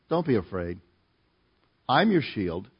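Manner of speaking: low, soft voice of God; calm, quiet reassurance; reassuring. Retold or imitated. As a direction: speak gently and low, as a protector. Voicing God reassuring Abram.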